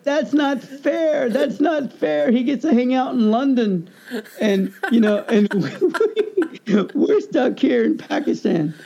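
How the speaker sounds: high, slow, whining complaint; whiny sisters. Retold or imitated. Sisters left behind in Pakistan complaining, slow and whiny. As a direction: drag it out like jealous little sisters. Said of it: "And they're like".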